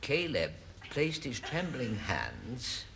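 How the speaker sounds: deliberate storybook reading with long pauses; measured, innocent bedtime-tale telling; story narration. Acted. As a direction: improvise a prim ending, picking each phrase. Invents an innocent ending.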